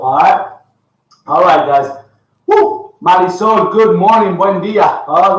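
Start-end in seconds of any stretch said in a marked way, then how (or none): 2.5-2.9 a high, whooping woo; coach's rallying woo; excited cheer. Real, not acted. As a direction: cheer the group on with a burst of energy. Cheering on the class.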